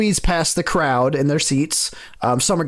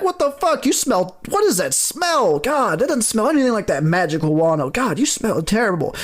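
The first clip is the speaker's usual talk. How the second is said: disgusted crowd; 5 semitones higher than usual. Acted. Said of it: "they're looking at you like".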